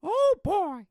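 high, loud cartoon exclamation; cartoon impression. Host answers in the cartoon bit, high and loud. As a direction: yelp it way up high.

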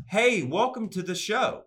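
slow, high show-host welcome with Southern accent leaking through; drawn-out, careful Southern-accented announcer greeting; attempted accent-free voice. Shown as a demonstration. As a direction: try hard to clean up a Southern accent. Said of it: "That's my attempt to".

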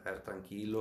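calming self-talk. Retold or imitated. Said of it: "empiezas a respirar".

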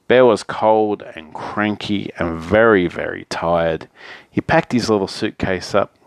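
picture-book narration with lively phrasing; story narration. A narrator's reading. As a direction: read a bedtime story to children. Reads picture book aloud.

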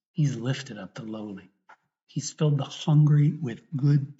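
measured proclamation with emphatic key words; earnest, deliberate recitation of a sacred text; scripture reading. Real, not acted. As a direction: read the gospel out to a congregation. Reads the Gospel canticle aloud.

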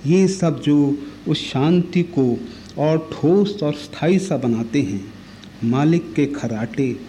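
measured reading with pauses between short phrases; poetry recitation. Acted. Reciter reading Shamsher's poem about an ox to listeners, poetry recitation. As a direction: recite it line by line, stressing key words. Reads a poem aloud after introducing it.

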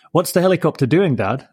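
put-on eager child's question, up high; boy bursting to know about the helicopter; excitedly. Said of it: "asked Willie excitedly".

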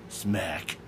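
smack the lips like a kiss; kiss sound. Shown as a demonstration. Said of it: "that was like a kiss sound effect".

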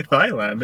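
"Thailand" with th as in thigh; mispronounced th. Retold or imitated. Insisting people say "Thailand" with a th sound. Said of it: "don't know how to pronounce T H".

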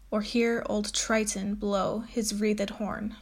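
measured, deliberate poetry reading; teacher reading a Wordsworth sonnet aloud; poem reading. Acted. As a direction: read the sonnet to the class with care.

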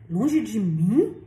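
grito assustado, bem mais forte e muito lento; grito de terror. A narrator's reading. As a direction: solte o medo devagar, alto. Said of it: "Gritou o homem com uma entonação estranha de terror". (homem assustado grita à tia, terror alto e lento)

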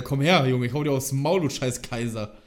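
loud tough-guy threat; mock threat. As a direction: bark it like a brawler picking a fight. Ruffy threatens a Kaiser. (laute Drohung wie Ruffy)

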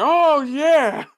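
loud, high mock elation; imitated excitement. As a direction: play an overexcited commentator. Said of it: "he's excited".

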